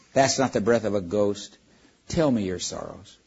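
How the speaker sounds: a hint of a vast, gentle lion; calm great voice. Aslan's voice in the dark.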